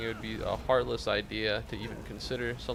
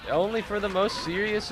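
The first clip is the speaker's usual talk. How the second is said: mock scolding; 6 semitones higher, 5 dB louder than usual. Scolding chat.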